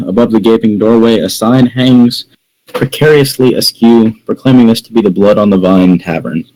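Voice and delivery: measured game master's description; scene-setting narration. A narrator's reading. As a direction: set the scene as if reading aloud.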